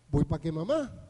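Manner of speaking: put-on low Maracaibo accent, rising at the end; casual reply in a Maracaibo accent. Woman tells husband she is off to mom's, Maracaibo accent. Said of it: "así de Maracaibo".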